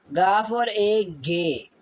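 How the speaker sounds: गाफ और ए drawn out slowly, then गे; slowly combine the sounds into गे; slow sounding out. Shown as a demonstration. Teacher sounding out a Korean syllable for students. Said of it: "यानी कि गाफ की".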